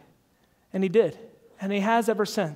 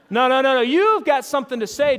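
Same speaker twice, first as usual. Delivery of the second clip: louder, higher pushy prodding; insistent drunk; 3 semitones higher, 6 dB louder than usual. Retold or imitated. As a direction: push him to speak up. Drunk man pressing him.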